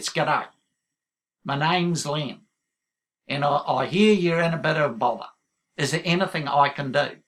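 lightly voiced Aussie bloke, easygoing; mild Australian accent offering help. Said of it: "I've been practicing my Aussie accent".

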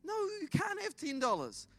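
indignant, high-pitched scolding without shouting; mock-angry dad. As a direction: act out an annoyed dad refusing his son. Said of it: "The dad gets angry".

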